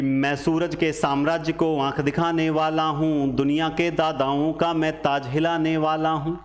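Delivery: lightly declaimed poem; poem recitation. Acted. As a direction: declaim each line evenly.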